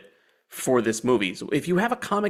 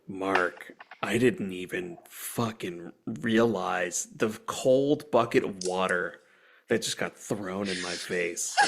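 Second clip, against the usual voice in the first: laughing in disbelief; 8 semitones lower, 5 dB quieter, slower than usual. Real, not acted. Stunned realization, laughing.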